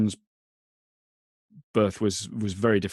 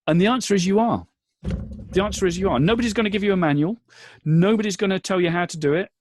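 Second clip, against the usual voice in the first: rising, louder pep talk; rousing encouragement; 7 semitones higher, 3 dB louder than usual. Real, not acted. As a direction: lift them up like a coach.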